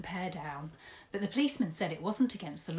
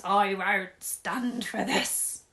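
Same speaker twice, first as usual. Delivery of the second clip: shouting; 3 semitones higher, 8 dB louder, much slower than usual. Acted. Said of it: "pumps his arms up and down and shouts".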